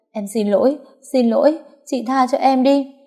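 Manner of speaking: high, desperate begging. Acted. Mistress begging the wife for mercy, high-pitched. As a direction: plead for mercy, voice climbing.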